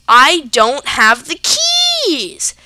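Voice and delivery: slow, loud, breathy plea; desperate whisper-shout. Retold or imitated. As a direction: beg him, voice cracking. Pleading, near tears.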